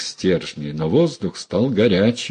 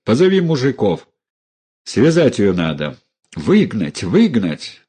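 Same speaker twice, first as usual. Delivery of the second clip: mild angry order; 2 semitones higher, 3 dB louder than usual. Acted. Uncle orders her thrown out.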